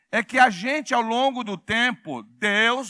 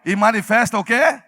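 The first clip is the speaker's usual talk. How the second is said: prompting the crowd, ending on a raised question; loud call-out; 6 dB louder than usual. Shown as a demonstration. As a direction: lead the congregation in a firm call. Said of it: "Fala bem alto".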